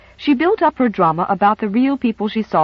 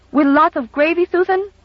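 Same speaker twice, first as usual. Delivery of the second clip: put-on eager little girl; 9 semitones higher than usual. Child asks eagerly.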